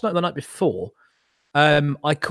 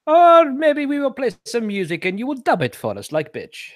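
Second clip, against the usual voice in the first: lightly hammed-up German villain accent, drifting toward Spanish; mock German accent; 9 semitones higher than usual. Mocking war-film Germans for friends, a wobbly fake German accent. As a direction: play a British actor faking a German war-film Nazi, badly. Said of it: "I'm back to Spanish".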